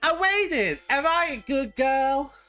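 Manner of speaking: put-on little girl voice. Recounting voicing a child character named Alone: Alone's child voice. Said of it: "I was doing her voice. I was doing a child".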